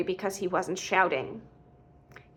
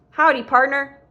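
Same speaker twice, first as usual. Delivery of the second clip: raised, louder jokey greeting; playful call, pitched up; 5 semitones higher, 7 dB louder than usual. A narrator's reading. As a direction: toss it out as a hearty joke. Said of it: "which is a joke he does".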